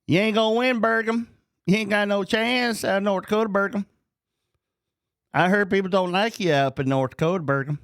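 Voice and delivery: high, fast mocking taunt at the candidate. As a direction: jeer at him in a high sing-song voice. Taunting candidate, mock accent talk.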